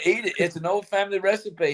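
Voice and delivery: high-pitched quoted voice; Mike Tyson. Retold or imitated. Retelling the sandwich video, imitating in a high voice. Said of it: "YouTube video that was out of Mike Tyson".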